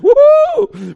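loud, high joyful whoop; excited whoop. Retold or imitated. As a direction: cheer out loud like you love the cold. Grilling in a blizzard.

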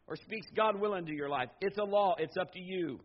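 ordinary delivery

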